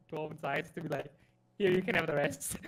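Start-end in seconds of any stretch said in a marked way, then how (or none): 1.6-2.6 talking through cake; words round a mouthful of cake; mouth full. Acted. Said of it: "whilst I'm eating the cake".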